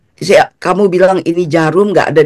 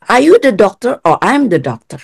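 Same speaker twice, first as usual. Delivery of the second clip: mock-indignant doctor pulling rank, pitched higher; imitated indignant challenge; 4 semitones higher than usual. Doctor putting a doubting patient in their place, retold indignant challenge. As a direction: challenge them as the affronted doctor. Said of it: "sampai diginiin saya".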